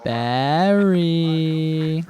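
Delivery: excited call. Real, not acted. Spots Barry in game.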